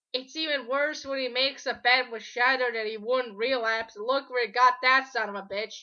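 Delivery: bursting out in exasperation; loud rant. Real, not acted. Angry rant at the creator.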